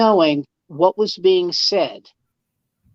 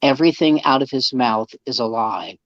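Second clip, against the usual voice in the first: put-on lower, slow, weary voice of the old comic; imitating the older comic; 6 semitones lower than usual. Older comic complaining to the host about a lying colleague, low and slow. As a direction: drag it out low and slow, fed up.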